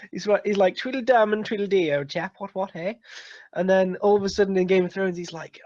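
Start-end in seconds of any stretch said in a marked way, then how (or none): 0.8-3.0 mock posh upper-class English; posh English accent. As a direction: play a toff saying old chap. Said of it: "he's so posh".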